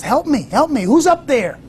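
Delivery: high, urgent cries for help; desperate plea. Retold or imitated. Hiker on the twig begs the voice above, high urgent plea. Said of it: "The fellow says".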